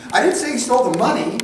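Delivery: "money" punched high and loud at the end; stress on MONEY. Shown as a demonstration. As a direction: save the weight for the word "money". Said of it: "What did he steal?".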